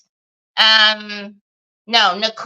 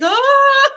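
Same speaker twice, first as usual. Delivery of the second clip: high, loud shriek of panic; loud high retold shriek; panicked scream; 13 semitones higher, 5 dB louder than usual. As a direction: let out a sudden freak-out squeal. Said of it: "but yet I was like".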